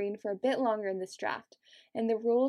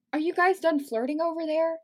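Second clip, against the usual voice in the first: higher-pitched teasing call-out; mild shout; 6 semitones higher, 4 dB louder than usual. A narrator's reading. Keith interrupts the flirting pair, mild shout. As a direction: call across to them, half-shouted. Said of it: "Keith shouted".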